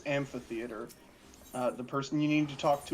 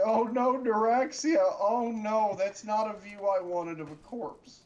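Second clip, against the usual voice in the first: mock dismay; 7 semitones higher than usual. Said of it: "It's like".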